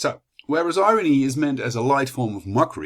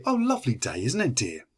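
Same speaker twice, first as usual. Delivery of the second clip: ironic remark. Shown as a demonstration. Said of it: "that's kind of irony".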